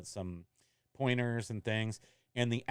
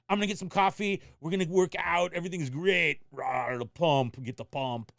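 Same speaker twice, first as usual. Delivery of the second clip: hyped, higher morning psych-up; pumped up; 5 semitones higher than usual. Retold or imitated. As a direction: fire yourself up for the workout. Pumped-up self before the fall.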